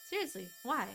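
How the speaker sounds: ordinary talk, nothing marked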